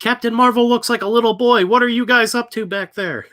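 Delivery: high squeaky mock voice; mocking creep voice. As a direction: pitch way up, leering. Mocking imagined pedo-hunter.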